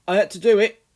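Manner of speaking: high, loud, quick plea; frightened boy rushing his excuse; hurried boy. A narrator's reading. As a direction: blurt it out to Mother. Charlie pleads.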